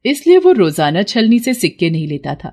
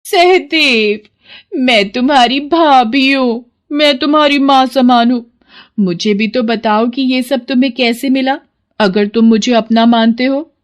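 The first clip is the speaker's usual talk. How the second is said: higher, sweet wheedling voice; butter him up for the secret; coaxing sister-in-law; 5 semitones higher than usual. Acted. Sarla coaxes Sahdev, sweetly wheedling.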